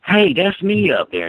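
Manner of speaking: high, zany mock announcement; acting wacky. Daughter pranking a Walmart manager, wacky high voice. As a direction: play the daughter hamming it up. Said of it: "start acting all wacky and say".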